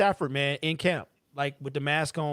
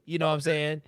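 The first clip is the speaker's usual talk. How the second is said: with a sore jaw; 4 dB quieter than usual. Retold or imitated. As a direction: mouth barely opening, in the style of a certain rapper. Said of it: "God can't open my mouth all the way".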